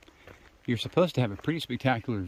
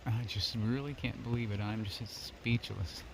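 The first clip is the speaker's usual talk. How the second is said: soft, slow and moved; slow down, barely speaking, overwhelmed; hushed awe; 3 semitones lower, 7 dB quieter, slower than usual. Real, not acted. Overwhelmed at the mountain view.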